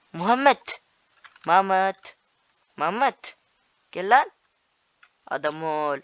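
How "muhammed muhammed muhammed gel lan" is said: loud, high call across the game; yelling for a teammate. Real, not acted. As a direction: shout the name to get his attention.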